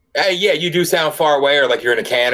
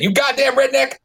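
higher mock redneck jeer; emulating a Kentucky buddy; 11 semitones higher than usual. Mimicking the Ashland guy teasing the host, higher mock jeer. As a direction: poke fun like a Kentucky friend would. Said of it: "I'll emulate him".

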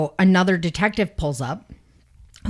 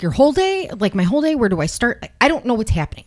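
high, fast flustered disbelief; mock bewildered; 7 semitones higher, much faster than usual. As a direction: sound lost and rattled. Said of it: "she's like".

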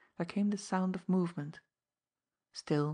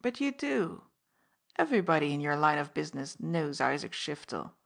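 ingratiating; 4 dB louder than usual. Acted. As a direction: coax him toward a deal. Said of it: "his tone and manner changed".

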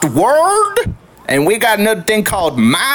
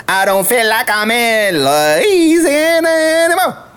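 the same bayou twang, less crazy; toned-down Louisiana accent. Acted. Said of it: "I get a little too crazy".

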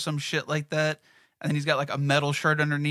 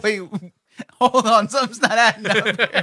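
incredulous; 6 semitones higher, 8 dB louder than usual. Retold or imitated. Speaker's own reaction retold.

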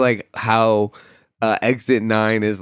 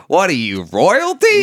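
incredulous mock; 7 semitones higher, 4 dB louder, slower than usual. Gas clerk mocking him.

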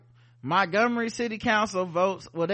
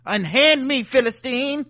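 put-on drunken posh sneer; 2 semitones higher, 7 dB louder than usual. Entitled white person voiced.

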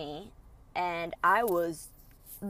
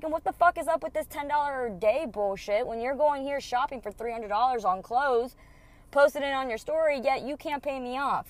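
higher, heated accusing rant; indignant rant; 5 semitones higher than usual. Retold or imitated. The speaker ranting at her ex about the money, indignant. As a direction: call him out on the shopping. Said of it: "And I was like".

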